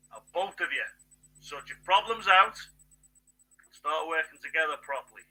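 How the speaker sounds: a lightly voiced old patriarch scolding two nations; mild mock scolding from an elder; stern great granddaddy. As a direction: tell them off like a cross great-grandfather, without much change of voice. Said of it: "That's your big great granddaddy telling both of you off".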